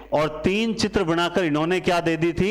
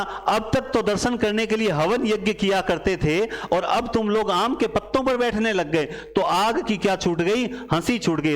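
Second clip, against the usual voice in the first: the fire speaking; 3 semitones higher than usual. Acted. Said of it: "बोला".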